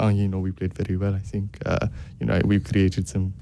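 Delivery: a weak attempt at a French accent imitating Patrick Vieira; lightly French-accented post-match quote; mock French manager interview voice; bad French accent. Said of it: "that's a terrible French accent".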